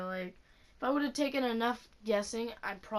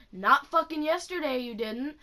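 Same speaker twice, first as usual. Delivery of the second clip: sharp angry comeback; 3 semitones higher, 6 dB louder than usual. Retold or imitated. Retorting to the lying teacher.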